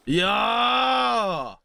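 long drawn-out shout of awe; amazed yell. Real, not acted. Gamer watching the ground get drilled, long amazed yell. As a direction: let one wowed cry stretch right out. Amazed at tunnel blown open.

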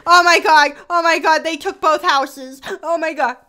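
loud, high shocked gasp; shocked exclamation. Real, not acted. Shock at houses taken.

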